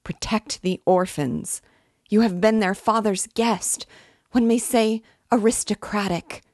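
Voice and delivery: high, loud, tearful plea; heartrending wail. A narrator's reading. Dying mother begging protection for her orphans, wailing. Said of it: "with a heartrending scream and a flood of tears".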